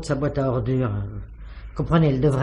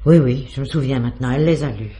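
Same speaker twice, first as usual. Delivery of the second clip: louder, quickly claiming to remember; eager sudden recall; 7 dB louder than usual. Acted. Concierge to the inspector, suddenly loud and eager. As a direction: grab at the memory as if saved.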